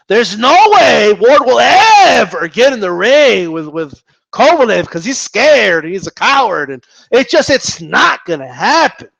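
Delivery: emphatic, drawn-out key words; hammed-up certainty, punching the stresses; mock insistence. Boxing vlogger parroting doubters of the fight, mock insistence. Mocks fans' emphatic prediction.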